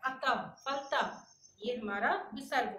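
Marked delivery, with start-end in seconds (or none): 0.0-1.2 अतः and फलतः said slowly, each ending in a breathy ह; slow visarga demo. Shown as a demonstration. Teacher to pupils sounding visarga slowly in अतः, फलतः. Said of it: "ह के समान इसका उच्चारण होता है".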